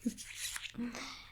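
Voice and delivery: hushed, sinister little laugh; villainous chuckle. Acted. Devil amused by captive's thoughts, quiet villainous chuckle.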